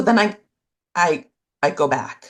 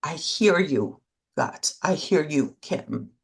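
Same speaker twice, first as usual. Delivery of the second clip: tender self-talk. Shown as a demonstration. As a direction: speak gently as to a hurting friend. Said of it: "but just to say".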